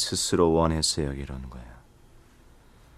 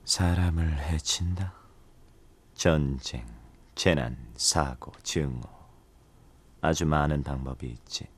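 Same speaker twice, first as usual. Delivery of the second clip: slow menacing whisper; 4 dB quieter, slower than usual. Acted. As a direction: savor the question darkly. Dark lord muses ominously.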